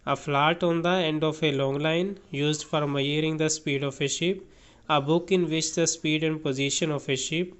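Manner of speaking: slow, careful read-aloud of a definition; teacher reading a definition aloud, very slowly; slow dictionary reading. Acted. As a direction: read each word slowly for the class.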